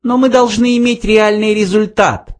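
high little voice, emphatic; insistent mouse. A narrator's reading. Mouse insists on a real result, high emphatic voice. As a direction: press the point, pitched high. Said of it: "подчеркнул Фрэнки".

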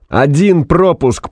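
slow, high-pitched emphatic cry; strained yell. A narrator's reading. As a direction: stretch it out at a yell. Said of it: "проорал Фанк сорванным голосом". (надсадный протяжный крик)

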